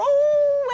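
high, loud wailing miaow; imitated cat noise. Presenter making noises for guessing game, cat miaow.

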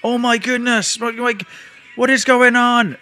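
put-on high, fluttery old-lady voice, slowing at the end; worried old lady. Old lady to the man lying on the grass, high worried voice. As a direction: play a flustered old lady in alarm. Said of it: "These two old ladies come over and ask me".

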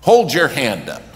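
loud, high command to the crowd; pitched preacher's cry. Retold or imitated. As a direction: hit the peak of the altar call. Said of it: "now he's really pitched".

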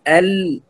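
ال said thin and light; light hamza and lam. Shown as a demonstration. Teacher repeats the correct form, light thin ال. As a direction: return to a light, clean ال. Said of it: "الهمزة واللام ترقيق".

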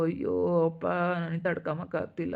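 soft, fading cry of despair; despairing moan. Acted. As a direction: let it sink into a helpless moan. Mother overwhelmed with grief. (ಮೃದುವಾದ ನೋವಿನ ನರಳಾಟ)

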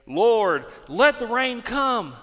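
loud, ringing prayer; acted-out prophet's summons; praying. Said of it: "and he prayed".

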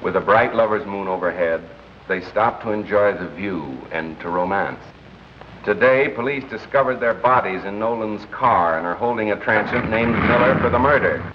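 put-on dramatic old-time newscaster narration; radio news story. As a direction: announce a crime item on air. Reads radio news broadcast.

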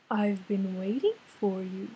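deep, low wise octopus. Acted. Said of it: "in a deep voice".

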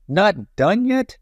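high, slow suspicious witch. A narrator's reading. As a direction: drag it out with suspicion. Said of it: "said Bony Legs".

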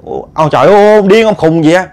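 acted-out wifely scolding; exasperated wife. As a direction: call after him in exasperated disbelief. Wife runs after enraged husband.

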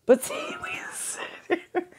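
laughing. Real, not acted. Laughs at herself.

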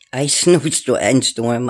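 tongue-tied giggle through it; giggling, tripping over the words; laughing stumble. Real, not acted. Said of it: "I can't even talk right".

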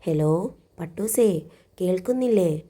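put-on sulky older sister on the phone; hurt complaint. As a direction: call out, a little wounded. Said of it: "പരിഭവം കലർന്ന സ്വരം".

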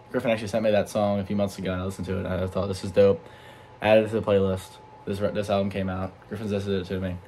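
talking with a retainer in; words around a dental retainer; wearing a retainer. Real, not acted. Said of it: "I have my retainer in".

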